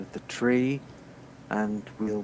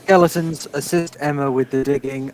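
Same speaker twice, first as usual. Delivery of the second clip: commanding call; 4 semitones higher, 5 dB louder than usual. Acted. Necromancer calling his skeletons to dig, booming command. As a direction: summon them with a booming order.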